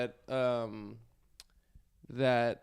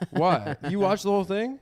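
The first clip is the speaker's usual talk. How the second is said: laughing; 7 semitones higher, 6 dB louder than usual. Real, not acted. Laughing surprised question.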